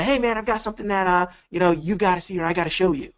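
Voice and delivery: pushy salesy pitch. Shown as a demonstration. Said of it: "Versus the".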